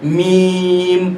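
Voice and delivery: میم drawn out very slowly; میم with its vowel held long; stretched letter name. Shown as a demonstration. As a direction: hold میم long for the madd. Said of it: "سین کو double کھینچیں گے چونکہ اس کے اوپر مد ہے".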